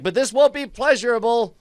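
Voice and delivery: high-pitched action-hero one-liner; hammed-up threat. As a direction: deliver it as a grandiose punchline threat. One-liner while throwing a punch.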